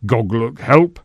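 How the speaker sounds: lightly voiced simple troll; a hint of a dim troll asking. A narrator's reading. Troll asking the senator, lightly voiced.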